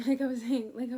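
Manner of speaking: laughing loudly through the restart. Real, not acted. Restarting her point to viewers, laughing loudly. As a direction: pick the thought back up while still laughing.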